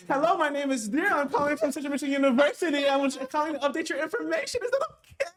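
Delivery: put-on white voice, sweet and eager. Fundraising caller to a donor, in a high put-on white voice. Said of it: "when I used my white voice".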